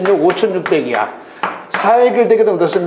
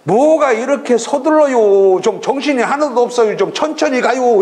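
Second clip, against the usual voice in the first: unhurried Chungcheong local; 5 semitones higher than usual. Retold or imitated. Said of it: "그 충청도 사람은 뭐라 할까요?".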